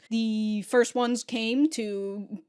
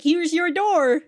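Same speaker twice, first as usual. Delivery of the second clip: slow proud announcement; 6 semitones higher, 7 dB louder, slower than usual. Retold or imitated. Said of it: "She's like".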